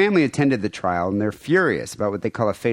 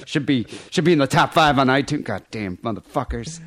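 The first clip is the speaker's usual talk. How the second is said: swearing tirade. Retold or imitated. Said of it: "That's just muttering profanity".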